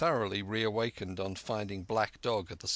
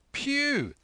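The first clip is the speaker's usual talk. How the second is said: a leap way up in pitch, louder; excited cry; 4 dB louder than usual. A narrator's reading. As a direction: burst out the name in sudden recognition. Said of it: "now quite excited".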